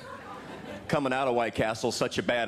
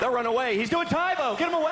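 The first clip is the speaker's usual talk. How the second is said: mock panic; 11 semitones higher, faster than usual. Comedian imagining people running from a Tae Bo fighter, mock panicked. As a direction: shriek it like fleeing bystanders.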